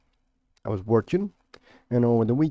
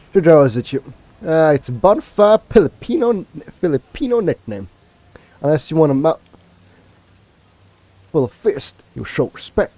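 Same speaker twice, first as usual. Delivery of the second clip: put-on higher, louder Filipino-accented threat; 4 semitones higher, 4 dB louder than usual. Orc threatening a fist to the mouth, in a Filipino accent. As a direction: warn them off in a Filipino accent. Orc warns about her nickname.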